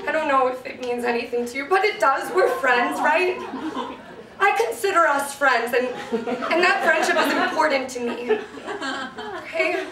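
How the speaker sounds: awkwardly earnest, halting talk to a dog; regular-person voice. Acted. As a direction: address the dog like an adult friend. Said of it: "talk to him like a regular fucking person".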